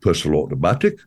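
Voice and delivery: "Personal automatic" in a low, light Geordie accent; Geordie impression. Shown as a demonstration. Comedian demonstrating Geordie, lightly voiced. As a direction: show off the Geordie key phrase. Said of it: "the Geordie accent".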